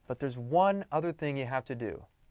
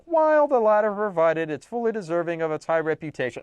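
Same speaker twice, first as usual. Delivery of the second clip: higher, louder reading voice; bad run-on read-aloud; 4 semitones higher, 4 dB louder than usual. Shown as a demonstration. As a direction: plough through a badly written run-on. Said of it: "it's going to sound bad".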